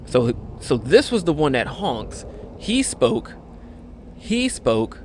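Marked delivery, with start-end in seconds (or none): 2.6-3.3 tree voice. Acted. Voicing a tree in game.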